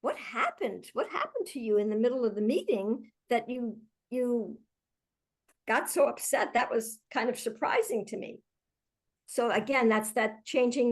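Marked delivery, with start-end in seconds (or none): 0.0-8.4 softer, open curious question; curious and gentle. Shown as a demonstration. Manager asking a colleague about the meeting, softly curious. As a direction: demo of the kind way to ask. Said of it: "you might say".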